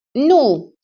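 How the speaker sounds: howling denial. A narrator's reading. Prisoner howling his denial at the interrogators. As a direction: cry out, shaking your head. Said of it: "începu să nege urlând".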